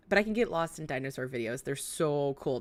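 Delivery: R in "dinosaur" softened toward w; says w for r. Real, not acted. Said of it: "I can't say my R's very well".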